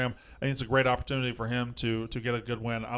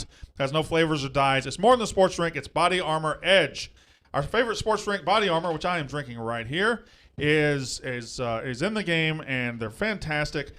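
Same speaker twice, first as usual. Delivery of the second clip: ad read; 2 semitones higher than usual. Acted. Host reading the sponsor ad to listeners, pitchy and upbeat. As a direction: sell the drink like a radio spot.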